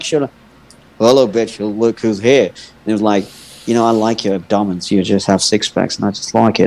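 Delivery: a hint of low leering come-on; lightly voiced creep. Man mimicking the swimmer hitting on him, slightly low leer.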